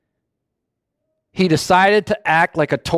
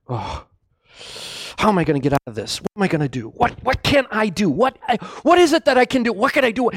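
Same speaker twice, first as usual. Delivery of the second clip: panicking David; 3 semitones higher, 4 dB quieter, much faster than usual. Retold or imitated. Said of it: "So what does he do?".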